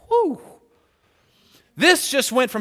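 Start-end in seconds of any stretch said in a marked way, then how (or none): 0.1-0.6 whew. Real, not acted. Reaction to revelation.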